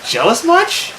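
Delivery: high, mocking jab; sarcastic jab. Mean girl mocking the victim, high sarcastic jab.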